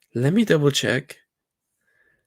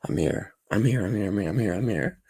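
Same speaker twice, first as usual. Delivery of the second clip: morning voice; 2 semitones lower than usual. Real, not acted. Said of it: "I still have the moaning voice".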